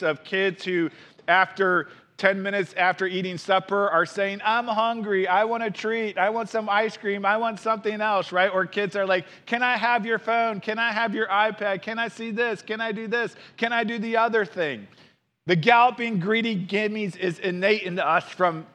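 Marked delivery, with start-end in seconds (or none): 4.4-8.3 higher, lightly voiced pestering child; nagging kids. Mock kids asking for treats after supper, lightly nagging. 9.4-14.9 higher, lightly voiced nagging child; pestering kids. Mock kids pestering parents for phone and iPad, lightly nagging.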